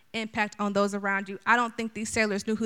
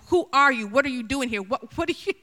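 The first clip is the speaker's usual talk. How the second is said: interrogation; 2 semitones higher, 4 dB louder than usual. Acted. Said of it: "they are giving it to".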